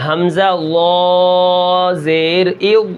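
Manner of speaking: slow حمزہ لا زیر او with a thick ظ; heavy ظ. Shown as a demonstration. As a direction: draw it out with a heavy ظ. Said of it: "موٹا کریں گے". (ظ کو موٹا کر کے تلاوت)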